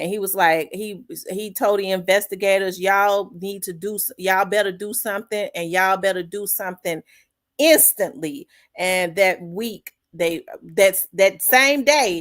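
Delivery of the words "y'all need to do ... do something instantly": normal talking voice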